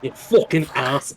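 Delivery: slow put-on Scouse insult; mock-aggressive Scouse accent; Scouse Virgil. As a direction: draw out the swearing in Scouse. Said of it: "made Virgil a Scouse".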